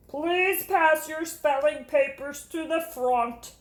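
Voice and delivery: slow, gentle teacher praising a pupil; warm teacher voice. Acted. Teacher praising Jamaica's reading, warm and slow. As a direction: praise her reading kindly.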